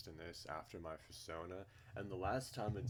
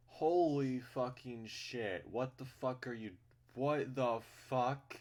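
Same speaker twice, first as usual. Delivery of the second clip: stunned shout; 6 semitones higher, 8 dB louder, slower than usual. Real, not acted. Shocked by game art.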